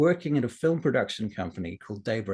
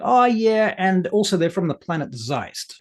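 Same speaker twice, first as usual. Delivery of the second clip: mock casual; 4 semitones higher, 5 dB louder, slower than usual. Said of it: "the second one is like".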